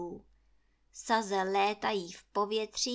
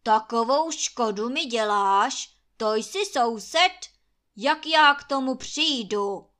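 loud, indignant snapping; angry outburst; 10 dB louder than usual. Acted. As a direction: lash out in anger. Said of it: "zle se na Krakonoše obořil".

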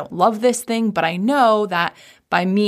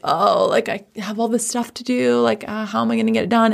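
mock whining; 3 semitones higher than usual. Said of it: "a whining".

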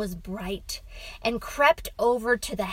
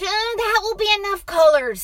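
put-on high, loud child voice, quick; fed-up boy; 11 semitones higher, 10 dB louder, faster than usual. A narrator's reading. Boy stops father's colour list, fed up. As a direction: cut in over the list.

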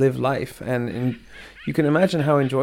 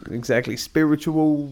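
lightly posh English delivery of spiritual; English accent on spiritual; mock English accent; 2 semitones higher than usual. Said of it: "really, really, really English".

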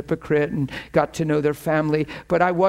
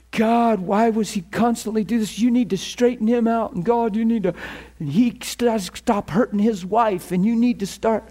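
higher-pitched complaining prayer, put on; mock fault-finding prayer; 5 semitones higher than usual. Shown as a demonstration. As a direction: demonstrate praying as if scolding. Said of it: "try to pray that way".

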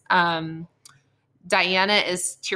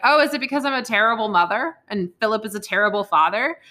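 slightly raised, mildly defensive retort; mock triggered queen; 4 semitones higher, 4 dB louder than usual. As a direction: imitate a touchy mother taking offence. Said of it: "the Queen gets triggered".

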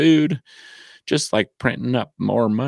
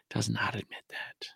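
whisper; 14 dB quieter than usual. Acted. Whispered aside in rant.

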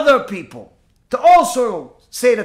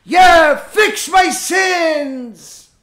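shouted high and loud, last words stretched slow; excited; 6 semitones higher, 3 dB louder, much slower than usual. Acted. Eager man on the roof cheers as feathers fly, excited shout. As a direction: cheer it out like a man who thinks he's saved.

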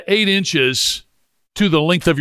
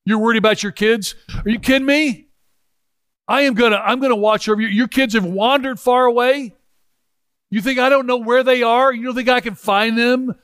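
higher, impassioned voice of Jesus; voicing Jesus; 4 semitones higher than usual. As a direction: speak as Jesus reassuring his people, rising. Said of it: "he's like".

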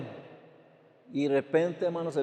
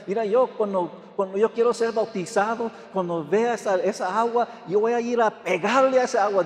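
put-on child voice; 4 semitones higher than usual. Grandson quoted about baptism.

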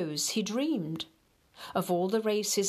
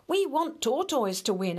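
eager rabbit voice; 6 semitones higher than usual. Acted. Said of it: "added the rabbits".

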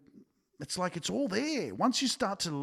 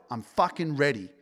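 louder, punchy statement of intent; emphatic declaration; 4 dB louder than usual. Shown as a demonstration. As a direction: hit it hard, fully committed. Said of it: "Write it".

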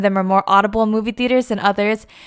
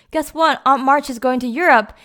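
bragging; 4 semitones higher than usual. Retold or imitated. Amy bragging at the wedding.

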